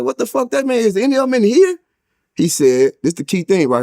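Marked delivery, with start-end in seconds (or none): 0.1-1.8 retold outrage. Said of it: "I went off".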